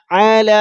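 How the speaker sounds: علی with the ع pressed from the throat; throaty ain. Shown as a demonstration. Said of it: "حلق سے نکالنا ہے". (علی حلق سے زور لگا کر)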